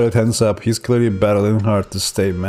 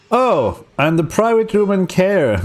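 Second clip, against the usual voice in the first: much higher, prim doctor voice; 8 semitones higher than usual. Acted. Doctor reassuring the patient, in a high prim voice. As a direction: play the doctor, up in the head.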